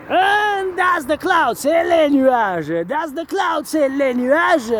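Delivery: playful high voice. Acted. Teaching French words to the cousins in a playful high voice. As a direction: pitch it way up like teaching kids words.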